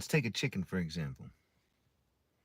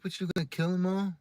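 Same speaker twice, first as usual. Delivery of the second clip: dismayed neighbor; 8 semitones higher, faster than usual. Retold or imitated. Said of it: "He's like".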